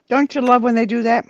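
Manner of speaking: mock-sincere rhetorical question, lightly done; sarcastic. Real, not acted. Commiserating with a friend over junk mail, lightly sarcastic. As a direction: ask it with understated sarcasm. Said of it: "That was sarcasm".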